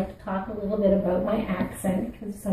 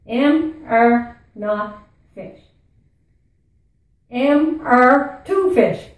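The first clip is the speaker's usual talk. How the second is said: playful Newfie lesson, pitched up; drilled Newfie accent in short separate bits; 3 semitones higher, 5 dB louder, much slower than usual. Shown as a demonstration. Host teaches viewers a silly first lesson, Newfie accent. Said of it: "talk like a Newfie".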